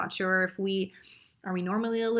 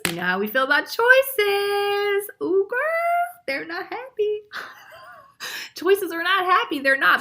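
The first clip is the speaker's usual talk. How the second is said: mock dramatic gossip; 11 semitones higher, 6 dB louder than usual. Voicing unhappy choices.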